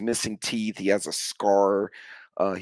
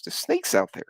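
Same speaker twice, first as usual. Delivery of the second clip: high-pitched imitation of a scared fiance; mock frightened. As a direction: squeak it out, mimicking fear of snakes. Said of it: "He does not like snakes".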